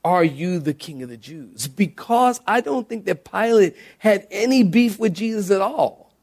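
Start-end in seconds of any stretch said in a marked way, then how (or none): 0.0-1.7 softer, plain wondering; calm sincere question. Shown as a demonstration. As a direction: ask honestly. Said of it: "I think he said".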